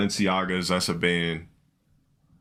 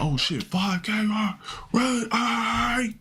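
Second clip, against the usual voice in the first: high squeaky mock panic voice; mock hype reaction; 12 semitones higher, much slower than usual. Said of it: "He's doing a stupid reaction".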